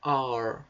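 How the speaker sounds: R held long, a strong curled American R; drawn-out rhotic R; pulled American R. Shown as a demonstration. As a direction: pull the R out like a country R. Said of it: "e puxa esse R".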